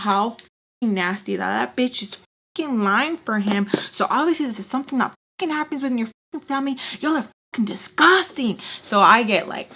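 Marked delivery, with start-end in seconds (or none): 0.0-8.6 retold angry tirade, rising in pitch; pissed. Cussing out his family for lying, pissed. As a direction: build higher into disgusted accusation.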